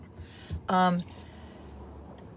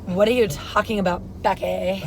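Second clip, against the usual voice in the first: lightly put-on Valley Girl chat. Friend joins the improv as a Valley Girl, Valley Girl. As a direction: play along as a mild Valley Girl. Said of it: "Do your Valley Girl".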